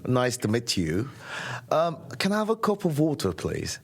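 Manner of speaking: put-on polite posh British accent; imitating a stereotype Brit. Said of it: "when we imagine British people".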